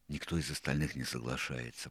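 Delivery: hushed, low confidential voice; quiet conspiratorial murmur; whispering. A narrator's reading. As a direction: say it softly as a secret for one ear. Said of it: "прошептал Израил".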